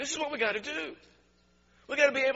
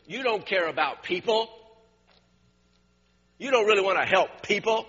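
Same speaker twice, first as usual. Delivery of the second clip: in-your-face rebuke; 7 semitones lower than usual. Acted. Preacher voicing Jesus rebuking the Pharisees, confrontational and building. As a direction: confront them head-on, building as you go. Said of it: "what Jesus did was an in-your-face assault".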